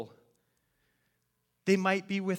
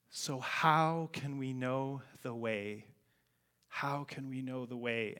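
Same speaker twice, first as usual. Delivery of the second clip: choked up; 3 semitones lower, 5 dB quieter than usual. Real, not acted. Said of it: "And I just started crying".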